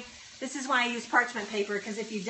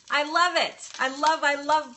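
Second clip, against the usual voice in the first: loud, high burst of delight; thrilled; 5 semitones higher, 7 dB louder than usual. Real, not acted. Cook thanking someone who made her day, thrilled.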